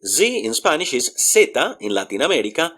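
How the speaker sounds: ordinary talk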